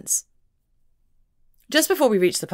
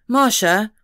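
exclamation; 4 semitones higher, 6 dB louder than usual. A narrator's reading. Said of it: "Scott exclaimed, chastened".

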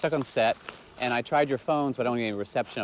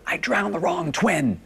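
mother yelling; 5 semitones higher, slower than usual. Retold or imitated. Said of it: "she would just yell at me".

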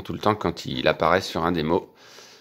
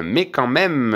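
repeated higher with insistence; 6 semitones higher, slower than usual. Real, not acted. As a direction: push it up a notch. (repris plus aigu, insistant)

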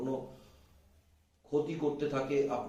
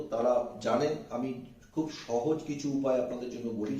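usual speaking voice

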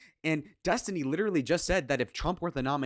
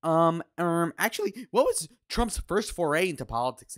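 higher, louder nerdy actually voice; mock pedant; 4 semitones higher, 4 dB louder than usual. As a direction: play the smug correcting nerd. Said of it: "he's like".

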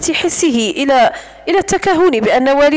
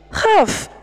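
surprised question; 6 semitones higher, much slower than usual. Acted. Surprised echo of a word.

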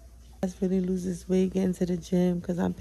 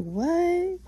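surprised; 5 semitones higher, slower than usual. Retold or imitated. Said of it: "I was like".

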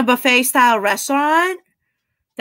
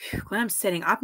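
whisper; 3 semitones lower, 9 dB quieter, faster than usual. Real, not acted. Sitting up full after dinner.

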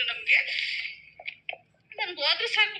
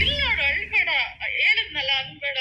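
crying. Real, not acted. Quoting officer while she cries.

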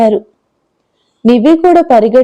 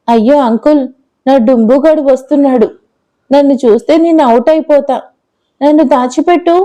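lightly voiced little girl; 2 semitones higher than usual. Girl urgently asks to hide.

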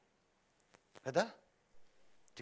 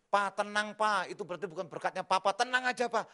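a hint of a soothing daughter; calm Papa down; lightly voiced daughter; 7 semitones higher, 6 dB louder than usual. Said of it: "diceritakan kepada putri-putri kami".

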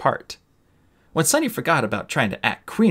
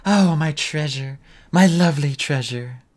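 hammed-up dying queen; 5 semitones higher than usual. Sunny acting a defeated queen, hammed-up lament. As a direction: overplay the tragic queen's death.

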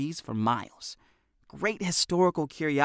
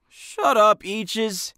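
Hefty; 9 semitones higher, 5 dB louder, much slower than usual. A narrator's reading. Hefty snaps at Tommy.

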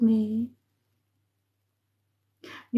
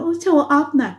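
mock gushing; 5 semitones higher, slower than usual. Mocking viewers who show off.

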